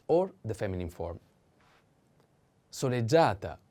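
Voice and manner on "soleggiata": "soleggiata" with GIA lengthened; stress on A. Shown as a demonstration. Teacher introduces the feminine form, "soleggiata" stressed on GIA. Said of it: "The accent is on".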